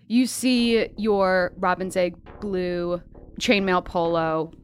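slow, hushed game master build-up; dramatic scene narration. Acted. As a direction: set the scene slowly over music.

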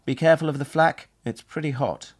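high, loud yell over the radio. Acted. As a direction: shout the warning, then settle. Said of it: "I yelled to him".

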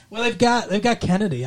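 lightly done Boston accent, Kennedy-style; Boston accent attempt. Shown as a demonstration. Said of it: "the Boston accent would be like".

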